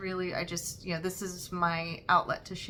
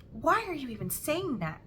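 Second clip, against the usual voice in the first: a high, puzzled question to her daughter; retold surprised reply; 7 semitones higher than usual. Mother questioning her daughter's self-criticism, surprised. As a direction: lift the question up in mild disbelief. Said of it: "It's like".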